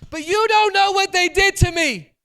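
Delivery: high, loud whiny hurt voice; whiny protest. Pretend. Hurt churchgoer protesting to the preacher, whining high. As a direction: whine like a wronged churchgoer.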